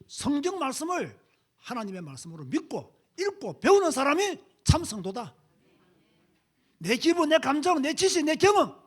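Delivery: loud, ringing sermon climax; preaching at full force. Real, not acted. Preacher urges the church to accept scripture, loud and ringing. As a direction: hammer each phrase to the pews.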